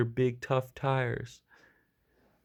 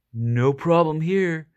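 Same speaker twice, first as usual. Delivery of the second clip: 1 nervous backing down; 4 semitones higher, 5 dB louder, slower than usual. A narrator's reading. Dog backing down.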